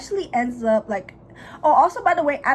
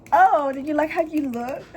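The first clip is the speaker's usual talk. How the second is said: taunting; 6 semitones higher than usual. Retold or imitated. Thea taunting, retold.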